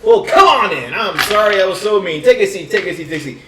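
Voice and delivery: high, loud, eager welcome; suddenly friendly. Acted. Council leader welcoming the adventurers, suddenly eager. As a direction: gush with apology.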